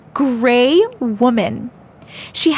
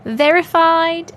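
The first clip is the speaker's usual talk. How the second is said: slow, slightly raised put-on accent; Missus Doubtfire; 3 semitones higher, slower than usual. Streamer announcing story title, mock Doubtfire accent. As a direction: announce it in a drawn-out nanny accent. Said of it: "Missus Doubtfire accent".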